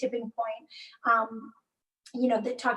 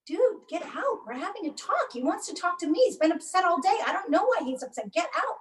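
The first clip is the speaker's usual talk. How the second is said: firm get out; 6 semitones higher than usual. Retold or imitated. Telling husband to leave.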